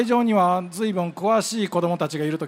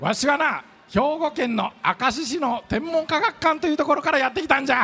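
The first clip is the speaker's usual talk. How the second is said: put-on creaky wise old man; 5 semitones higher than usual. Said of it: "わしはブラック星博士じゃ".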